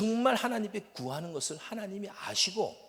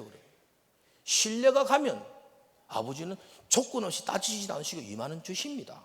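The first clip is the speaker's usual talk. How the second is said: ordinary delivery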